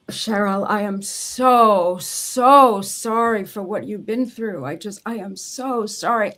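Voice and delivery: slow, voice catching with held-back tears; tearful apology. Retold or imitated. Ghostwriter finally apologising to her client Cheryl, tearfully. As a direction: stretch the words out, choked up with sorrow. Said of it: "And I am sobbing".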